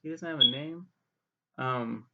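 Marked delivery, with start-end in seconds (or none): 0.0-0.9 high, incredulous "whoa" reaction; surprised. Retold or imitated. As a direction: replay your surprise at a discovery, pitched up. Acting out own surprised reaction.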